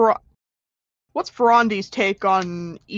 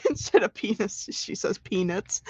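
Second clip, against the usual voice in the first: laughing; 6 dB quieter than usual. Real, not acted. Laughing while explaining.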